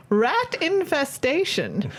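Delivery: slow, ominous seance medium reading; fortune teller voice. Pretend. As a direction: read the fortune like a mystic medium. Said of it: "read it in your fortune teller voice".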